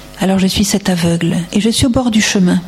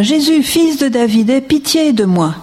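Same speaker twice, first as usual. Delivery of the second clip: blind man crying out; 5 semitones higher than usual. Acted. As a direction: call out to Jesus for mercy, not a full shout. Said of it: "Alors il s'écria". (appel suppliant de l'aveugle, plus aigu)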